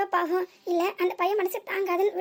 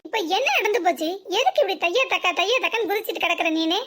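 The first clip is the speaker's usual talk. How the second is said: louder, exasperated snap; irritated retort; 3 dB louder than usual. Acted. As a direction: push back at the ranting mother. Daughter scolds ranting mother. (எரிச்சலான பதில்)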